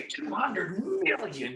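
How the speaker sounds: "two hundred million" slow, each word weighted; slow down to show how big "two hundred million" is; emphasized number. Shown as a demonstration. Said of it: "you see how big that is".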